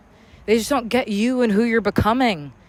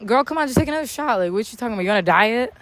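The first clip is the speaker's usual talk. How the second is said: mock pushy friend; 2 semitones higher, faster than usual. Mimicking a friend pressing her to drink, quick and teasing. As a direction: rattle it off like a friend egging her on. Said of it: "you know, or".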